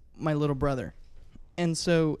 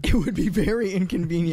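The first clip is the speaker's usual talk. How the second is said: laughing; 2 semitones higher, 6 dB louder than usual. Real, not acted. Laughing agreement about losing convenience.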